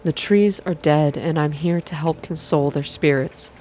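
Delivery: even, unhurried visual novel reading; calm, slow narration. A narrator's reading. Streamer reading a visual novel aloud, calm and slow. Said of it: "calm, slow".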